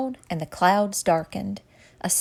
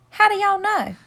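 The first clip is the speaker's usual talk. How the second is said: surprised question; 12 semitones higher, 4 dB louder than usual. A narrator's reading. Silky asks in disbelief.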